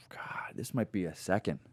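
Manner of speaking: slow, low near-whisper after a sigh; hushed pondering. Real, not acted. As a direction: think it over under your breath. Weighing a hard ranking after sighing.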